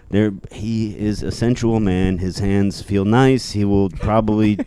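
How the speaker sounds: sensual French snake. Acted. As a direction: purr like a vain French snake.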